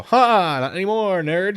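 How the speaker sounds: high, taunting imitation; mock gloating. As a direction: crow it like a playground tease. Acting out gloating police officer.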